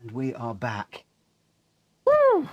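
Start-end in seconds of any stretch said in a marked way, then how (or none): 2.1-2.5 loud high cheer; a joyful whoop; excited whoop. Real, not acted. Celebrating the race win.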